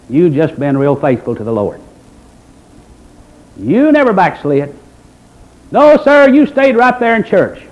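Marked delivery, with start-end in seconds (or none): 3.6-7.6 mock praise. Mocking the never-backslid member.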